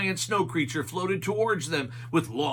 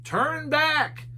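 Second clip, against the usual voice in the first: mild yell; 12 semitones higher, 3 dB louder than usual. A narrator's reading. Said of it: "Some skiers yelled".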